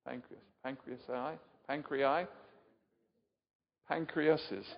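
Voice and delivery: "Pancreas", "Pancreasi", "Pancreai", "Pancreases" tried out one by one, musing; trying plurals aloud. Shown as a demonstration. Preacher asking the crowd the plural of "pancreas", testing forms aloud. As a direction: test each plural of "pancreas" aloud as if unsure. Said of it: "What's the plural of pancreases?".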